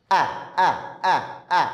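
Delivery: আ repeated with the mouth one finger open; drilled vowel a. Shown as a demonstration. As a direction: chant আ as a classroom drill. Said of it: "মুখ এক আঙ্গুল ফাঁকা রাখবা".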